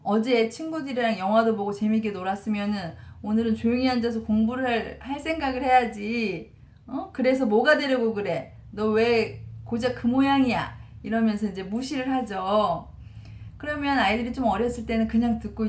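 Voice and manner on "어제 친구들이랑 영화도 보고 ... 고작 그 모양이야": imitating a dad talking down to his son; mock dismissive father. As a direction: belittle the kid like a nagging dad, lightly acted. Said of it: "무시하는 투로 말하는 거죠".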